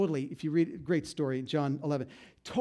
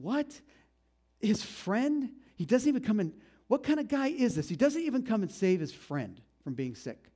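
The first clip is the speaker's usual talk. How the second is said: incredulous; 6 semitones higher than usual. Retold or imitated. Retold indignant onlookers questioning Jesus.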